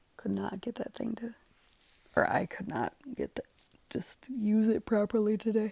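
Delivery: talking through a yawn. Speaker working with a tape gun, yawning. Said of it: "I'm sorry, I am yawning".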